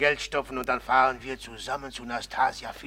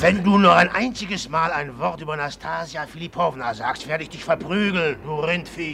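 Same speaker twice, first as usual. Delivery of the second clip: louder, higher furious threat; angry threat; 4 semitones higher, 6 dB louder than usual. Acted. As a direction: threaten to beat him if he says one word. Jealous threat to beat him. (wütende Drohung, lauter und höher)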